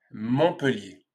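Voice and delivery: MONTPELLIER said alone with falling pitch; MONTPELLIER as "mon-pe-lié", silent t; pronunciation demo. Shown as a demonstration. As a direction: model MONTPELLIER for learners. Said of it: "tu as appris à bien prononcer".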